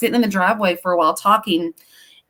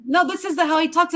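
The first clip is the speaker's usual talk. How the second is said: pitched-up defensive explaining; higher retold reply; 9 semitones higher than usual. Mother explaining her son's odd talk, pitched up. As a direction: brush it off, a little high and quick. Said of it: "I'm, like, going".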